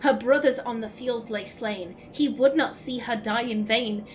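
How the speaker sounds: measured, solemn poem recital; steady verse reading. Acted. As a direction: read it like a ballad.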